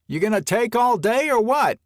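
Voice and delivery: loud, high impatient call. Acted. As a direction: shout across, impatient. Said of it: "Steve's voice called".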